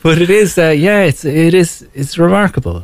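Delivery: laughing through the words; giggling while talking. Real, not acted. Laughing after joke about followers.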